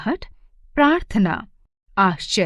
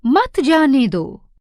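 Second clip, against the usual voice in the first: मत जाने दो as one slow phrase, higher on मत; मत joined to जाने; 4 semitones higher, 4 dB louder, slower than usual. Shown as a demonstration. Teacher showing children the forbidding sense, मत joined to जाने दो. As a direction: lean on मत and run it into जाने दो, falling. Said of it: "अल्प विराम का प्रयोग करने से".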